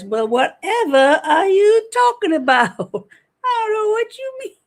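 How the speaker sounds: hammed-up innocent denial; mock coy innocence. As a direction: play dumb, coyly, laughing.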